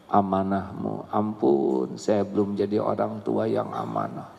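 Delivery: humble repentant prayer. Retold or imitated.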